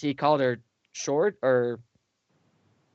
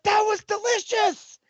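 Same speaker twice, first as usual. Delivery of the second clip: put-on cutesy girl. Voicing the demon girl.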